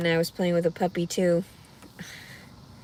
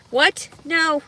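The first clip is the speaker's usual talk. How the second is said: shocked; 7 semitones higher, 8 dB louder than usual. Real, not acted. Surprised denial.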